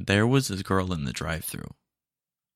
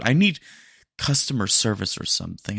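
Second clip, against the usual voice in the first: frustrated demand; 3 dB louder than usual. Acted. Customer demands help.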